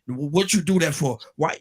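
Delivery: a hint of an adult standing over a child, demanding; a mild mock demand from above; lightly acted scolding of a grandkid; mock hovering scold. Shown as a demonstration. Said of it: "It's not like I'm hovering over them".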